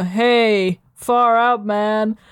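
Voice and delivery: slow, drawled hippie greeting; laid-back stoner drawl; stoned hippie. Acted. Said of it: "and they go".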